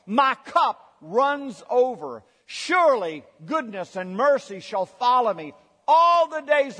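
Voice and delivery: congregation reading aloud together; many voices in unison. Real, not acted. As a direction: read it in unison with the crowd. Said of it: "we're gonna read it aloud together".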